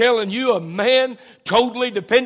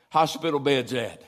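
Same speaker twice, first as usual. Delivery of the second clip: much lower and softer, with long pauses; hushed, tender recollection; 7 semitones lower, 8 dB quieter than usual. Real, not acted. Preacher recalling a talk with his late mother, hushed. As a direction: drop right down, halting between phrases.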